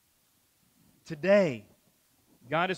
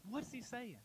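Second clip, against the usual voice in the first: near-whispered repeat; 6 semitones higher, 14 dB quieter than usual. Acted. Repeated question, second one hushed.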